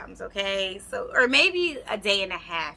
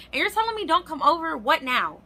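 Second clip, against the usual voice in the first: higher, fast outraged question; pissed; 8 semitones higher, 4 dB louder than usual. Retold or imitated. Woman outraged her boyfriend says don't come, outraged. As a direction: fire it off in disbelief. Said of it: "Now I'm pissed again".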